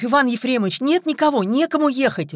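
high, loud pleading wail; desperate moan. A narrator's reading. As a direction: wail helplessly to the boss. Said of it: "простонал Прокофьев".

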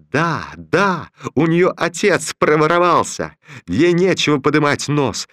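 a mild angry outburst at a rival; shouting. Acted. Jealous woman shouting at Romashov about a rival. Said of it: "кричала Петерсон".

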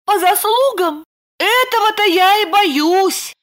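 put-on high young woman's voice, lightly eager; Lipochka reassuring. A narrator's reading. Lipochka telling Roman the bandit left, high voice. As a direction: pitch up into Lipochka. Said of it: "пригорюнилась Липочка".

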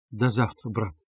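soft, gentle farewell; compassionate. A narrator's reading. Sister leaving her sick brother, compassionate. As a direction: say goodbye with understated pity. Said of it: "с состраданием сказала Дуня".

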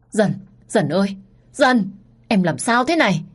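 a touch of panic, rising as he calls; hoảng sợ gọi. Acted. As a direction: call her name in growing alarm. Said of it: "Cậu hai hoảng sợ gọi tôi". (cậu hai ôm Dần bất tỉnh, hoảng hốt gọi)

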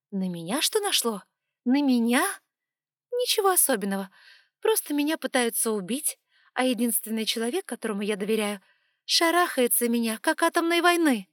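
loud, high bitter shouting; angry outburst. Acted. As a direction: let the hurt explode. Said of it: "heroine's angry outburst".

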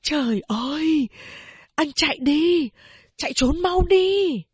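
giọng cao dần, gấp gáp; giục người con rể chạy ngay; cuống quýt giục. A narrator's reading. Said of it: "cuống quýt giục". (mẹ cuống quýt giục anh chạy trốn)

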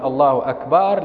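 أكبر with the ba drawn long, akbaar; stretched ba. Shown as a demonstration. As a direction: lengthen the ba in أكبر. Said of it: "لا يجوز أن تقول". (مدّ الباء خطأً في أكبر)

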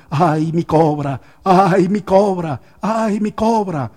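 slow, loud wailing lament; crying out. Retold or imitated. Snake charmer wailing over his dead cobra, slow loud cries. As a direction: drag out each cry like a mock mourner. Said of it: "llorando ... y gritando".

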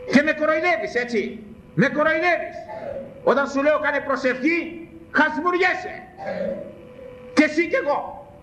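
high-pitched rebuke from the pulpit; indignant scolding. Real, not acted. Preacher takes the congregation to task for yawning at prayer, indignant scolding. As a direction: scold them, pitch pushed right up.

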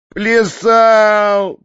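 loud, high, tearful bawl; sobbing roar. A narrator's reading. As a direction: bawl it out like a weeping boy. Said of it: "проревел Фалалей, всхлипывая". (рёв сквозь всхлипы)

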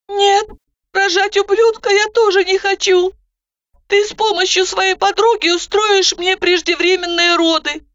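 put-on high, anxious young woman; doubting, nervous retort; Zhanna, anxious. A narrator's reading. Zhanna explains her plan.

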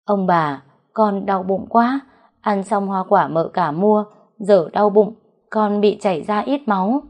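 put-on understated weepy voice of a hurting girl; tearful complaint. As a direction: plead in pain with a touch of crying. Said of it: "Nó vừa khóc vừa nói".

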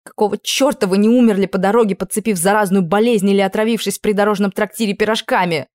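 loud, hot tirade; furious yelling. Acted. Princess raging at prince Stich, furious yelling. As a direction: rage at him, wishing him dead. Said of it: "закричала я".

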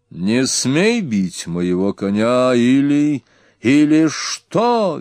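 high, very slow squealing yell; a petulant prince squealing in rage; shrill shout. A narrator's reading. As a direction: shriek the challenge, dragging it out. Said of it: "визгливо закричал Эрнак".

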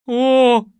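loud startled shout; startled cry. Acted. Анна вскрикивает от испуга — громкий вскрик. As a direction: cry out in fright. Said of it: "закричала Анна".

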